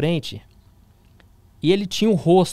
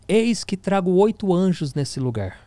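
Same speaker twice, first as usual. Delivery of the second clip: slow, mildly solemn prophetic pronouncement; with authority; 4 semitones higher, slower than usual. Retold or imitated. Retelling the prophetess's word to the room, mildly solemn and slow. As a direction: lightly voice the prophetess declaring it. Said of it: "começa a falar com a autoridade".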